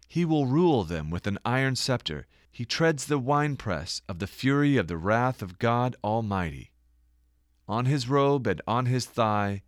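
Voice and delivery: elevated preacher's reading voice; scripture reading. Acted. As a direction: read it like proclaiming holy text. Reads scripture passage aloud.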